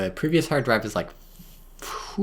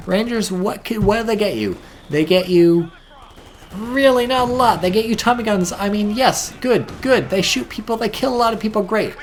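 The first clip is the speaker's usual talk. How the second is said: sarcastic; 9 semitones higher, 5 dB louder than usual. Real, not acted. Sarcastic rant about Rangers.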